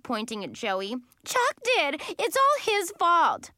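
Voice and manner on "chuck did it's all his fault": very high, loud accusation; yelling. A narrator's reading. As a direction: yell blame, pitched right up. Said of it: "Brittany yelled".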